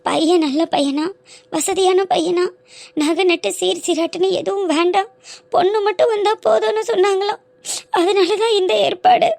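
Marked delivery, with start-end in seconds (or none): 3.9-9.3 crying. Acted. Girl weeping over forced marriage.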